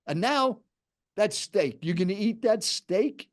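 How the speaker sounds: high-pitched retold challenge; insistent quoted interrogation; aggressive. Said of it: "kind of an aggressive tone".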